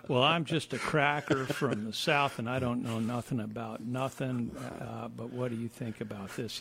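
put-on thick aw-shucks Southern accent. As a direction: play the humble Southern country boy. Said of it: "you put that Southern accent on".

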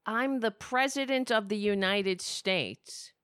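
slow, lightly mocking presidential boast; a touch of mocking pomposity; mock Trump. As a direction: drag it out to ridicule the self-importance. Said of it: "Who the fuck says that".

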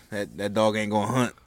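light Southern saying; Southern accent. Retold or imitated. Quoting a favorite saying to friends, light Southern accent. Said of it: "why'd you do a Southern accent".

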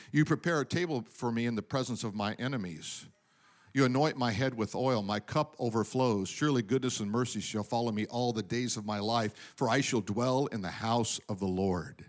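low, hushed reading of Psalm twenty-three; soft psalm recital. Acted. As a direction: drop to a quiet, reverent recital. Psalm 23 quoted softly.

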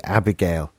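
"Abigail" in an English accent. Shown as a demonstration. Struggling to say a character's name, English accent. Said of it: "came out in my English accent".

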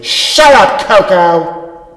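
sharp high yell at the cat. Acted. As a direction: snap loudly at the pet. Yelling at the cat.

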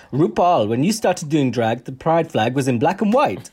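put-on very light Spanish accent. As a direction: imitate him with a half-hearted Spanish accent. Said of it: "I don't know why I did a Spanish accent".

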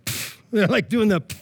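short mock scoff; scoffing puff. Preacher imitating Pharisees grumbling about sinners, mock scoff. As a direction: imitate a dismissive puff of air. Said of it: "scoff. You know what I mean? They're scoffing".

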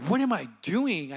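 retold jolt of disbelief; lightly stressed self-questioning; sudden realization. Man catching himself in the bathtub, mildly stunned.

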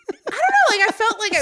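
giggling through the words; high-pitched laughing talk. Real, not acted.

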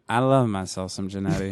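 tipsy and quiet, low. Real, not acted. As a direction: wine kicking in, a bit slurred. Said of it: "that means that I'm getting drunk".

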